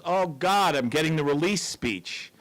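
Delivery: mock panic at the dreaded speech; alarmed outburst, voice jumping up; freaking out. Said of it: "he freaks out".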